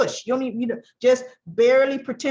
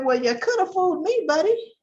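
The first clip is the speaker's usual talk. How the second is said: higher, sarcastic retort; sarcastic Phyllis; 4 semitones higher than usual. Retold or imitated. Phyllis mocking Jack's claim he distrusts Diane, higher and snide. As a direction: needle him with sass. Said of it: "Phyllis should have said".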